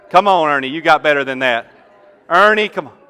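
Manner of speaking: loud coaxing over the noise; urging shout. Real, not acted. Preacher egging Ernie on over the crowd, calling out. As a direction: push him to try harder, calling loudly.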